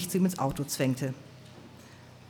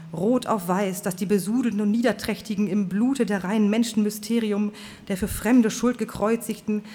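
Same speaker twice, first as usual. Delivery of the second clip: fiery preacher; 4 semitones higher than usual. Acted. Preacher Swan's fiery speech.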